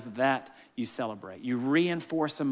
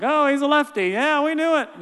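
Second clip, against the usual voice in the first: excited exclaim; 12 semitones higher, 7 dB louder than usual. Real, not acted. Telling coach, laughing.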